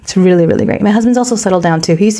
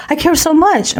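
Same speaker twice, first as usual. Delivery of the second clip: hurt husband; 8 semitones higher than usual. Retold or imitated. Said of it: "offend my husband".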